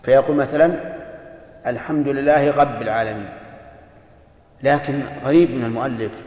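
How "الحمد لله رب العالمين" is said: رب said as غب, the r turned into a throaty gh; lisped r as gh. Shown as a demonstration. A teacher imitating a lisping reciter, r as gh. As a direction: say رب with a gh sound for the r. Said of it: "الذي يجعل الراء غينا".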